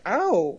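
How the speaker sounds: quick imitated yelp of pain; little pretend ouch; retold yelp. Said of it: "He gets a little shock".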